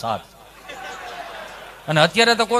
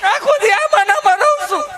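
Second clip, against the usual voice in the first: high, loud, laughing complaint; fed-up wife yelling her complaint; exasperated shout; 4 dB louder than usual. Retold or imitated. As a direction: hammer it home in mock fury. Wife repeats louder.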